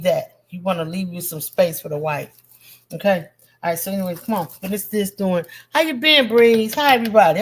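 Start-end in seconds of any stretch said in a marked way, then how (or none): 5.7-7.4 bursting hello to a regular; excited greeting. Real, not acted. Greeting viewer Breeze excitedly.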